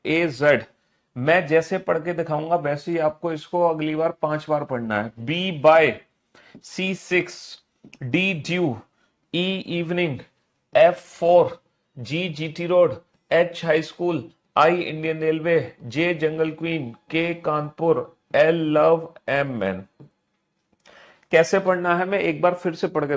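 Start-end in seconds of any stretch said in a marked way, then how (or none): 0.1-0.6 crisp read-aloud drill. Shown as a demonstration. Teacher shows pupils how to read the list, reading aloud. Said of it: "पढ़ के दिखाता हूं". 5.2-19.8 measured recitation, pausing after each pair; reading out loud. Shown as a demonstration. Teacher shows pupils how to memorise letter pairs, reading out loud. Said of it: "जैसे मैंने जोर जोर से बोल के पढ़ा".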